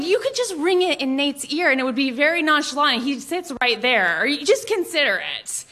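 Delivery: coaxing, persuasive schoolgirl pitch to mom; wheedling pitch. Retold or imitated. Teen daughter coaxing mom at dinner, persuasive.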